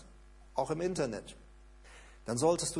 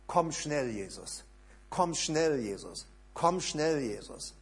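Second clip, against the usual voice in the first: repeated prayer; slower than usual. Shown as a demonstration. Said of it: "So, das ist das Gebet".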